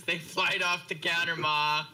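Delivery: mocking quote of the excuse. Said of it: "that's how out of it he is".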